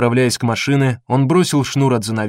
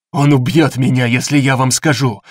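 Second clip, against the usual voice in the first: through gritted teeth; 3 dB louder than usual. Acted. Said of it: "процедил тот сквозь стиснутые зубы".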